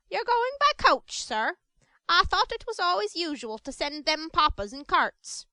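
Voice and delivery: high, wondering woman's voice; awed. Acted. Awed Mrs Mann asking the beadle, high and wondering. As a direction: ask in timid wonder. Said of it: "quite awed".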